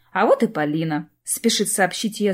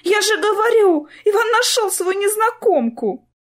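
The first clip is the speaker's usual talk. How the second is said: high, louder, fretful repeat; vexed repeat; 12 semitones higher, 4 dB louder than usual. A narrator's reading. Sister repeating her news to Clara, high and vexed. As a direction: say it again, fed up and upset. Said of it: "с досадой повторила Полина".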